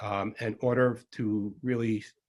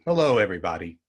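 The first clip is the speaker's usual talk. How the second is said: lower, more sober hello; toned-down greeting; 4 semitones lower, 5 dB louder, faster than usual. Shown as a demonstration. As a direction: greet them as if the topic is Lyme disease. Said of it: "More like in the Lyme disease mode".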